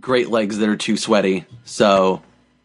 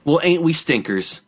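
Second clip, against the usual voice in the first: Bugs Bunny quip; 2 semitones higher than usual. Retold or imitated. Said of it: "you'll sound like Mel Blanc".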